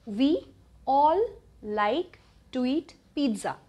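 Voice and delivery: slow, spaced-out repeat for learners; measured dictation of a sentence; slow teaching model. Shown as a demonstration. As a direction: say it word by word with small pauses.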